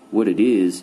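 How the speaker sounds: loud, cutting interruption; angry interruption. Acted. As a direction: bark over him. Papa cuts him off angrily.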